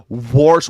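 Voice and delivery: "wash" said as "warsh"; R added to wash. Retold or imitated. Comedian complaining about dad's accent, R added to wash. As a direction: stick a hard R into "wash". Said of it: "there's no R in wash".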